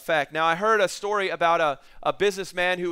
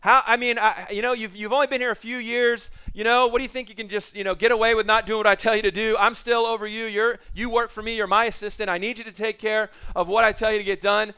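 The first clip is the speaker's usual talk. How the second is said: raised, higher mock tirade of a boss; yelling at assistant; 3 semitones higher than usual. Sales manager scolding his assistant, raised and higher. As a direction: lay into her like an angry boss. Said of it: "just yelling at her".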